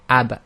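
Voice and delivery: ab with a strong stop and a quick lip release; sharp stopped ab. Shown as a demonstration. Teacher showing students the qalqala bounce, stopped sharply. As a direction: pop the lips open on ab. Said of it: "So we say ab".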